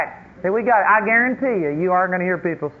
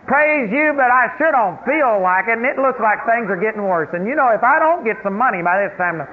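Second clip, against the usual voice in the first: high, louder, complaining prayer voice; mock whining prayer; 5 semitones higher, 3 dB louder than usual. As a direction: whine it up high like a bound griper. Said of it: "he'll start".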